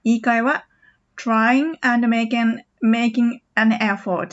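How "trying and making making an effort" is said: slow with the g of making sounded; careful separate words; slowly, word by word. Shown as a demonstration. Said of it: "これ早く言うと".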